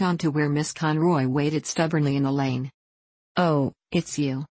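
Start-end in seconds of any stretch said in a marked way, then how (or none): 3.4-4.4 slow, heavy recognition; grim. A narrator's reading. A rancher recognising an unwelcome neighbour, grimly. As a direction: let the words fall like bad news. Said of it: "he said grimly".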